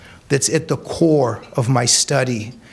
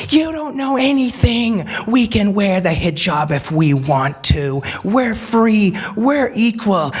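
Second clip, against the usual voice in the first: high, mocking protester voice; mock angry screaming; 6 semitones higher than usual. Speaker mimics protesters screaming at him, high mock yell. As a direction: imitate the women yelling back. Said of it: "they're screaming at him and at me".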